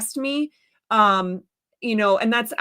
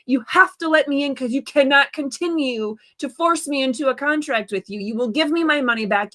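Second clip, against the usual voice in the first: heated, raised tirade at the staff; angry rant; 2 semitones higher than usual. Retold or imitated. Telling off the Costco guard, angry and raised. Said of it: "I'm getting angry".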